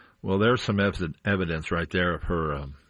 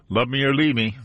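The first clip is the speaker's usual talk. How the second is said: louder and higher, savoring the title; excited exclaim; 5 semitones higher, 6 dB louder than usual. Real, not acted. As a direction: call out the song title with relish.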